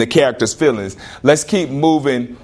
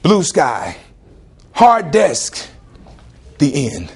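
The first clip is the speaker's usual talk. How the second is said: mock poem recital; much slower than usual. Shown as a demonstration. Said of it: "is this a poem, what I'm about to give you".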